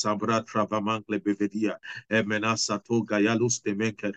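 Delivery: flowing prayer in tongues. Real, not acted. Preacher leads congregation praying in tongues. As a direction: murmur in tongues, steady.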